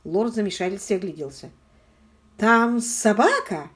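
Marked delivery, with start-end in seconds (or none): 2.4-3.7 slow, loud, grim question; gloomy slow question. A narrator's reading. The lord repeating the news about the dog, slow and gloomy. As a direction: drag it out darkly. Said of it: "мрачно повторил он".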